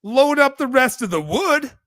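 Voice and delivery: high, loud mock-dad order; put-on high voice, incredulous; retold indignant dad. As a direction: imitate an exasperated dad insisting on the job. Dad's retold order to son.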